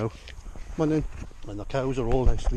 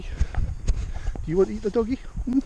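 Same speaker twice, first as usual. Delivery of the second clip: higher, slow sing-song tease; teasing pet talk; 9 semitones higher, slower than usual. Real, not acted. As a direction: draw it out teasingly to the horse. Teasing horse, repeated.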